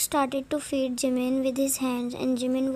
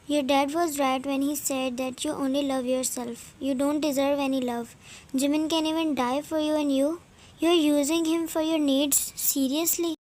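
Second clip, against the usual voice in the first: disgusted. Acted. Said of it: "Jungkook's accent was clearly showing disgust".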